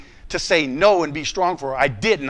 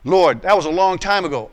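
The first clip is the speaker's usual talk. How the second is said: defensive protest; 4 dB louder than usual. Retold or imitated. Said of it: "Now watch my responses".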